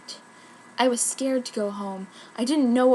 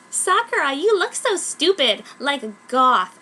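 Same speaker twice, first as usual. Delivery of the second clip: mocking sister; 3 semitones higher, 4 dB louder than usual. Bratty sister taunting Sakura about her goth look. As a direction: sneer it out like a bratty sibling.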